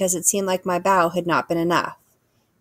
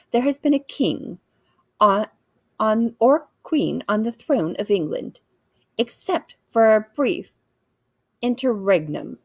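lightly voiced queen, raised pitch at first; regal queen, lecturing; 4 semitones higher than usual. Queen explaining the English throne, lightly regal lecturing. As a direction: deliver history with royal formality.

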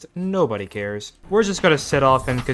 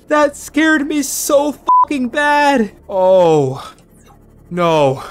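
loud, high panicked shrieks, stretched out; real fright, yelling in panic; terrified screaming; 8 semitones higher, 8 dB louder, slower than usual. Real, not acted. Reaper Leviathan jump scare.

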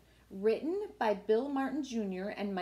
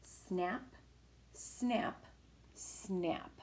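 crocodile snaps; 4 semitones lower, 8 dB quieter, much slower than usual. Acted.

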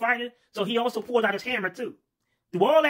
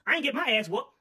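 higher, indignant complaining; annoyed refusal; 6 semitones higher than usual. Acted. Worker refusing to rescue his stingy boss, higher indignant grumble. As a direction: grumble like you won't lift a finger. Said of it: "was like".

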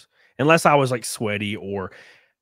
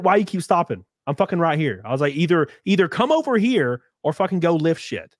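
higher, louder retold challenge; mock confrontation; 7 semitones higher, 4 dB louder than usual. Him taunting the gym guy, a raised mock challenge. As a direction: dare him to come over. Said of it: "raising my voice to this guy".

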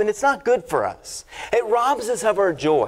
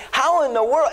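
mock disbelief; 5 semitones higher than usual. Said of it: "I'm thinking".

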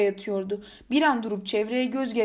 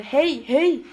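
raised, louder calls; calling to rouse; 4 semitones higher, 6 dB louder than usual. Acted. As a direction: call sharply to wake someone unconscious. Shaking unconscious pilot to rouse him. (ayıltmak için yüksek sesle seslenerek)

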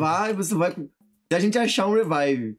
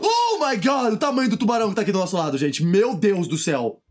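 surprised; 2 semitones higher than usual. Real, not acted. Giant shark beside them.

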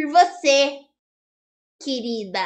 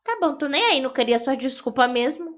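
lower, softer pretend huff; mock sulk; 5 semitones lower, 6 dB quieter than usual. After Bia ignores her apology, a soft mock sulk.

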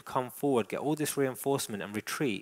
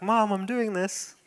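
high, drawn-out voice for the dog; proud dog's voice; 9 semitones higher, 4 dB louder, slower than usual. Acted. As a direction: play the dog calling out to Mom, high and slow. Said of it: "He's like".

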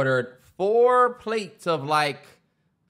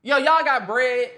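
high and slow, laughing through it; laughing mock plea; 8 semitones higher, slower than usual. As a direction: ask the waiter for bread as a joke, laughing. Imagining himself at the date.

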